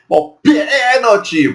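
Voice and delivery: high, slow shout of pênalti; mock penalty call. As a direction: call it like a referee. (grito de pênalti alto e lento)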